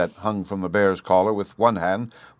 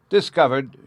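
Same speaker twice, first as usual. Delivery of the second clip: groan; 6 semitones higher, 5 dB louder than usual. A narrator's reading. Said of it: "she groaned".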